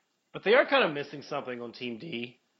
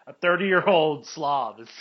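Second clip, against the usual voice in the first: slow, weighty, each word leaned on; savoring the words; 6 dB louder, slower than usual. Real, not acted. Host savoring the phrase to his co-host, slow and emphatic. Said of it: "I love the way he says that".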